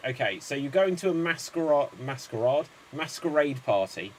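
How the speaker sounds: talking around a dental piece; words slurred by a tooth thing; tooth appliance in mouth. Real, not acted. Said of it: "can't speak with this tooth thing".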